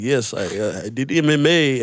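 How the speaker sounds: mock Russian-accented father. Comic imitating a friend's father, loose Russian accent. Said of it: "Why is it a Russian accent?".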